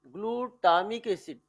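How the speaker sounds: ग्लूटामिक stretched out, syllable by syllable; slow, careful ग्लूटामिक; sounded out slowly. Shown as a demonstration. Teacher sounds out the term.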